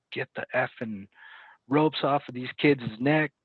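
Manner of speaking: mildly angry sergeant, retold; retold pissed-off sergeant. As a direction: act out an officer's irate command. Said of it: "he was pissed".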